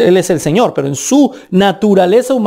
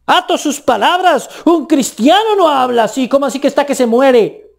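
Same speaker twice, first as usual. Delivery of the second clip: scolding legalist; 4 semitones higher than usual. Retold or imitated. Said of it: "le dicen a uno".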